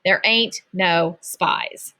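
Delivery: slow, drawn-out taunt; teasing sing-song repeat. Acted. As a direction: stretch ain't out to rub it in. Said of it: "He tossed a gummy bear".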